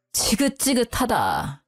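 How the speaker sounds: husband sick of the quarrel, slow tired disgust; weary disgust. Acted. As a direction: drag out 지긋지긋하다 wearily and quietly. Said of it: "나야말로 지긋지긋하다".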